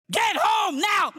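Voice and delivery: high, drawn-out holler; acted yell of a woman out of patience; fed-up command. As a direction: holler it at the dog, stretching each word. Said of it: "Finally, she said".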